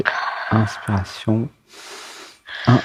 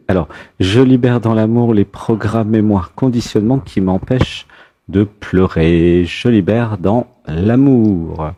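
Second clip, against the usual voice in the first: guided affirmation. Acted. Leads a release affirmation.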